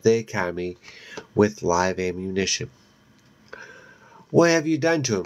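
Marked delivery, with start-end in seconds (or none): 4.3-5.3 demanding. Acted. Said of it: "he demands".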